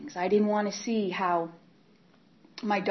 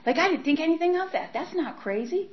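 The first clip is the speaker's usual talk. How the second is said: mock denial; 10 semitones higher, 4 dB louder than usual. Mock self-justification.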